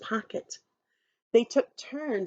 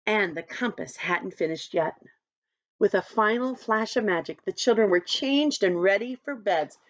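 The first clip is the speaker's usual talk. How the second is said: lower, settling storybook reading; bedtime story narration; 3 semitones lower than usual. A narrator's reading. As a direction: ease the children gently toward sleep.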